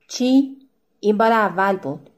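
indignant, wounded protest; hurt, offended. Acted. Husband answers his wife's accusation, offended and indignant. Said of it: "لحنش چنان رنجیده بود".

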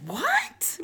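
imitating her own startled reaction; retold surprise. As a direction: caught off guard, pitch jumping up. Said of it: "And I was like".

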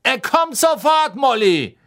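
high, loud hurried reply; calling back. Acted. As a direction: shout it back over the noise. Arthur calls back to Molly.

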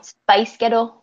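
Scottish-sounding "space ghetto", ending like "gettle"; light Scottish take, two words run together; Scottish accent. Shown as a demonstration. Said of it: "That's how they would say".

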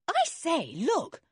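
high exclamation of discovery; sudden noticing. A narrator's reading. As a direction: call attention with quick surprise. Dick suddenly notices field glasses.

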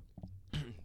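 harsh throat clear while choking. Real, not acted. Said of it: "just choking a little bit".

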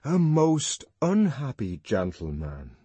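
slow, mournful line; lightly voiced sorrowful young man. A narrator's reading. Young man mourning the whipped boy, slow, mild sorrow.

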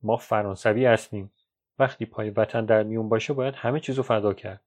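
understated firm reply; mildly resolute, steady delivery. Acted. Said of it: "پیر با لحن محکمی جواب داد".

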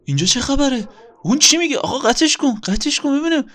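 furious host scolding his inner voice; angry outburst. Acted. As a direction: storm in and demand who started.

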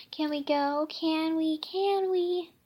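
put-on pleading kid voice, building up; eager begging. Child begging repeatedly.

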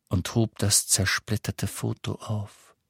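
ordinary delivery

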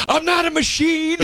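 very high squeaky indignant voice; mock wounded protest. Crying friend defends his tears, squeaky high protest. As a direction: squeak it out in hurt denial.

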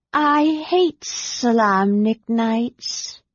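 slow, drowsy dragon voice; sleepy dragon mutter. A narrator's reading. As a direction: mutter it like a half-asleep dragon. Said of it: "the dragon added".

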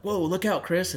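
high, loud yell of warning; alarmed warning shout. Retold or imitated. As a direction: shout it as the animal darts out. Porcupine runs into the road.

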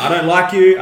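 mock Serra. Retold argument, Serra.

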